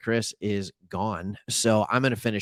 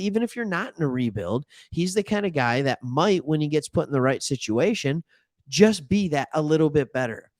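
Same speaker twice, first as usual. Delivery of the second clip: ordinary talk, nothing marked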